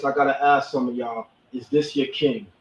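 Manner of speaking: lightly voiced Killmonger challenging the crowd. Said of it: "in my Killmonger voice".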